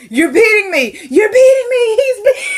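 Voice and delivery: high hammed-up wail through laughter; mock wailing. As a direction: camp up a hysterical cry of abuse. Retold melodramatic wailing accusation.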